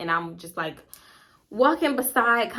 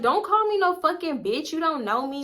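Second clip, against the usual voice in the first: Chelsea; 7 semitones higher than usual. Retold or imitated. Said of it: "Chelsea was like".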